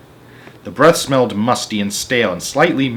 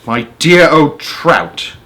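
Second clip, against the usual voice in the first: loud, slow, high mocking call; crying out; 4 semitones higher, 6 dB louder, slower than usual. Sponge crying out an insult at Spiker, loud. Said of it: "Aunt Sponge cried out".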